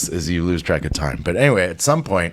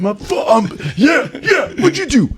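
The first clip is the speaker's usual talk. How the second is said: squeaky echo. Retold or imitated. Mimics the con, pitch jumping way up.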